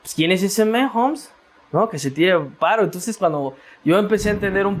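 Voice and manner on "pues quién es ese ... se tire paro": mock puzzled. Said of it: "como que yo decía".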